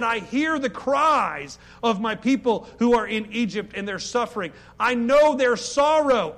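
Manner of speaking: slow, solemn voice of God. Acted. Preacher voicing God to congregation, solemn and slow. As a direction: intone it slowly like God speaking.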